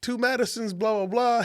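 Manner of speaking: high-pitched impression of an acquaintance; retold high-voiced small talk; Flojo's greeting. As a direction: imitate his hello, pitched well up. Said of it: "He was like".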